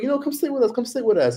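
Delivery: high friendly summons; inviting server. Retold or imitated. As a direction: wave her over, high and keen. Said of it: "He was like".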